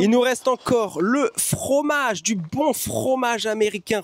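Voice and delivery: slow mock-gourmet praise; ironic praise. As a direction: savour it like a fine delicacy. Ironic praise of gross cheese. (éloge ironique)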